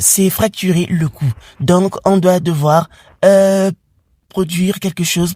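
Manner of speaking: a hint of a serious doctor. Doctor speaks to parents.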